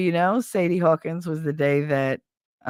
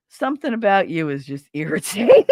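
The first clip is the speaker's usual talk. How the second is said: laughing; 3 dB louder than usual. Real, not acted. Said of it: "laughing take".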